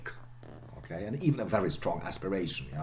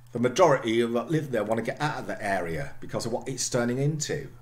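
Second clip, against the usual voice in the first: attempted Cockney with glottal stops; Cockney try; 3 semitones higher, 3 dB louder than usual. Shown as a demonstration. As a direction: read it in Cockney, glottaling every t. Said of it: "Let me try".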